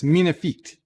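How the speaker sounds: light French pronunciation; mock-French aside; French accent. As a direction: repeat it with a touch of French accent. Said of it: "as they say in French".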